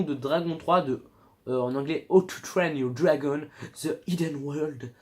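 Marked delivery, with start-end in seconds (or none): 2.1-4.9 slow English title in a French accent; self-consciously careful English with French accent; French speaker attempting an English accent; awkward English accent. Real, not acted. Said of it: "Super accent, pas du tout accent chelou".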